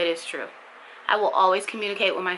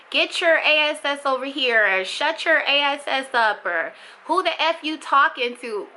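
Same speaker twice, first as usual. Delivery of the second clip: mock harsh yell at a child, higher; snapping at a kid in a rough voice; harsh parent; 5 semitones higher than usual. Mother imitating a harsh parent yelling at her child, mock angry.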